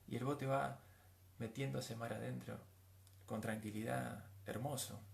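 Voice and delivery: soft, low, dreamy picture; tranquil scene-painting. Acted. Preacher picturing a calm boat ride, tranquil. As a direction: ease gently through a peaceful imagined scene.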